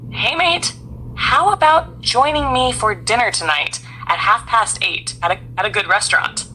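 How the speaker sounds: lightly Australian-accented invitation to dinner. Shown as a demonstration. AI interpreter inviting someone to dinner, light Australian accent. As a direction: invite a mate along with a hint of Australian accent. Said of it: "with an Australian accent".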